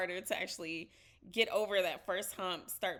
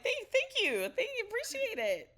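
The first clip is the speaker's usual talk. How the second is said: mock flustered thanks; 14 semitones higher, 4 dB louder than usual. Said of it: "And you're like".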